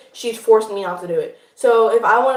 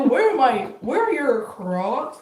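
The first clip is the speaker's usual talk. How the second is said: catchphrase imitation; 3 dB quieter, much slower than usual. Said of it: "And then you would do".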